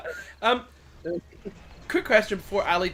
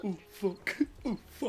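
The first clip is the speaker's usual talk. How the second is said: hushed oh fuck; 9 dB quieter than usual. Retold or imitated. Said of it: "And I was just like".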